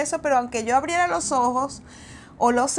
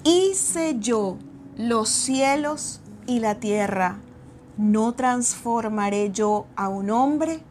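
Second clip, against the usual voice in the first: voice of God; slower than usual. Retold or imitated. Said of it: "me dijo en voz audible".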